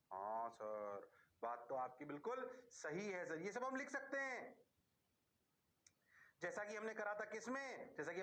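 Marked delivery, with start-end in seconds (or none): 0.1-3.4 mock student reply. Teacher voices a student answering.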